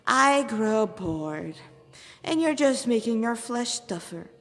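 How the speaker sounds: very slow, languid demon voice; bored demon. Acted. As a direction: drag the words out in boredom. Demon character voice.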